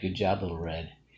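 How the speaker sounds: normal talking voice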